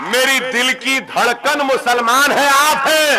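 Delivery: each "आप है" hammered home to the crowd; rising rally cry. Real, not acted. Orator's climactic list to crowd. (भीड़ से कहते हुए, ऊँची और धीमी होती जोशीली पुकार)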